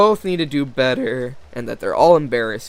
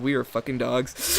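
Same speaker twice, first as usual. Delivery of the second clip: anguished yell. Acted. Despairing outburst.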